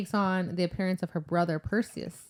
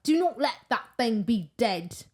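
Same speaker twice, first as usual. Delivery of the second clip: urgent warning; 3 semitones higher than usual. Retold or imitated. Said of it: "She's like".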